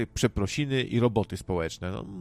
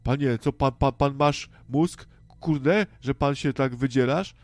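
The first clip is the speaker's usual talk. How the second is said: indignant neighbour; 3 semitones higher, 4 dB louder than usual. Pretend. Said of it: "Ktoś tam zaraz wyjdzie".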